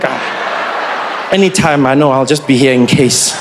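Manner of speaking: low, whispered ghostly voice; a patient reaper hovering close; angel of death. Pretend. The angel of death walking beside the old lady, low and whispered.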